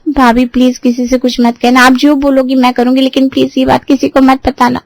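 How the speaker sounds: put-on anxious, high pleading girl. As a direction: plead with folded hands. Pallavi begging with folded hands.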